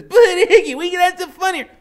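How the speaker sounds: high, loud, teasing; giggly voice. A narrator's reading. Loretta goading Iggy, giggly and high. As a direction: egg him on with giggles.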